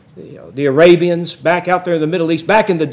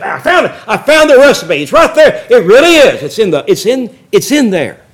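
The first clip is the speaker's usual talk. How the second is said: excited discovery; 3 semitones higher than usual. Retold or imitated. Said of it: "Told Leslie, I said".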